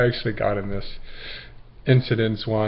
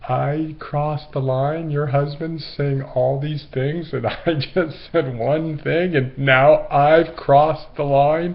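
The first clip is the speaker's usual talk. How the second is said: slow, rising disbelief; half-laughing mock outrage; incredulous; 4 semitones higher, slower than usual. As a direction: question it back in amused disbelief. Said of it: "I was like".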